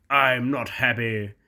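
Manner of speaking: mild, drawn-out grumble; complaining. Acted. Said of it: "complained Gordon".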